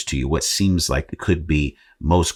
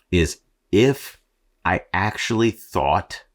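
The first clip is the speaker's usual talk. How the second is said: slow, higher hint of the Austrian accent; Arnold Schwarzenegger voice; 4 semitones higher, slower than usual. Shown as a demonstration. Podcaster jokes his real voice were Arnold, faint Austrian accent. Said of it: "if I actually thought that was my voice".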